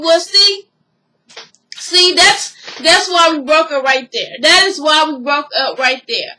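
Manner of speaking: retold frustration, starting loud and emphatic; emphatic, imitated reproach; exasperated comeback. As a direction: act out a fed-up ex making his point. Retells his exasperated comeback.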